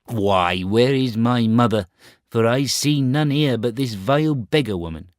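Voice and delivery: proud boy, voiced high and loud; a scornful young prince turning away a beggar; Star Child. Proud boy scorning a beggar woman, high and loud.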